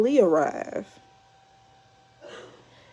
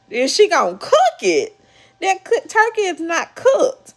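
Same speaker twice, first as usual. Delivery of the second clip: higher, laughing at the raw turkey; laughing disbelief; 10 semitones higher, 3 dB louder than usual. Real, not acted.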